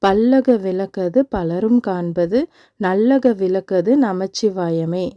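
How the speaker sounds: slow, measured devotional verse; unhurried prayer verse with drawn-out words; mantra recitation. Shown as a demonstration. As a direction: recite the lamp-lighting mantra slowly, line by line. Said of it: "இந்த மந்திரம் வந்து சொல்லிட்டே".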